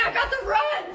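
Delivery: laughing. Acted. Excited player laughing.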